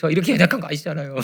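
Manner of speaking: loud mock-weeping plea to God; imitating tearful prayer. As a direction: act out someone praying through tears. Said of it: "막 울면서 막 기도를 드렸다는". (울먹이며 기도하는 흉내)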